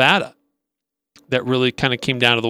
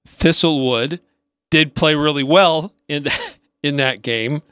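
suppressed laugh. Real, not acted. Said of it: "Say with a straight face".

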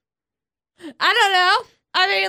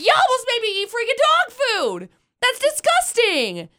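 mock disgusted self; 6 semitones higher than usual. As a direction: act grossed out at the dog food. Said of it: "And I was like".

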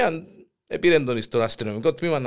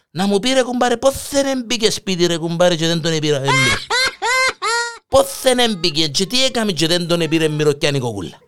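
desperate plea; 4 semitones higher, 4 dB louder than usual. Retold or imitated. Punchline: husband begs for burglar's trick.

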